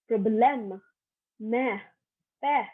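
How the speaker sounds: "problème, mais, pe" with open "eh", falling; French accent grave. Shown as a demonstration. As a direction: let each of "problème, mais, pe" fall on an open è. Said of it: "from a higher pitch to a lower pitch".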